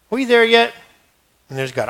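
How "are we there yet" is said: put-on whiny kid. Kids nagging in the car.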